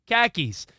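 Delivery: "khakis" with a short a as in cat, KACK-eez; "khakis" pronounced KACK-eez. Shown as a demonstration. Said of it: "Just say khakis".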